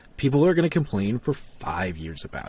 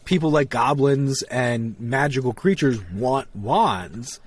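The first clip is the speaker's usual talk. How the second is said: exasperated; 2 semitones higher than usual. Retold or imitated. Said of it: "I'm like".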